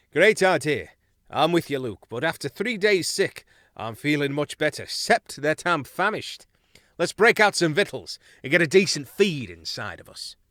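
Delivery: cheerful shipmate keen to eat; hearty young mouse. Acted. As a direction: sailor pepped up after being seasick. Dulum speaks up eagerly.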